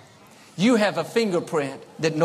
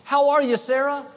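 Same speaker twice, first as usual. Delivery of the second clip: much higher and louder, cheery; bright cheery greeting; 9 semitones higher, 4 dB louder than usual. Shown as a demonstration. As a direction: greet her brightly across the room. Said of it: "every time someone said".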